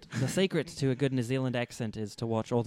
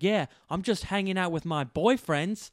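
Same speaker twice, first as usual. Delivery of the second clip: higher, louder, drawn-out phone brag; man on the phone; 6 semitones higher, 5 dB louder, slower than usual. Acted. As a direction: stretch it out, loud and high, showing off down the line. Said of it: "on the phone with his girlfriend".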